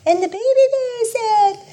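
high squeaky little bear voice; baby bear voice. Retold or imitated. Sister retelling the three bears, high baby bear voice. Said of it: "she uses inflection".

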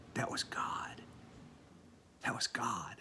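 put-on the little boy's whisper, wide-eyed; four-year-old boy whispering to the teacher in wonder; awed whisper. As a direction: whisper it in awe. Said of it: "and he said".

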